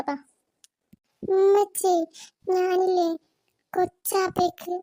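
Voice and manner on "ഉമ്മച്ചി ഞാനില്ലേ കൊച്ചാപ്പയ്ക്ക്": put-on scared child. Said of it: "നമുക്ക് പേടിയാണ് ഉമ്മച്ചി".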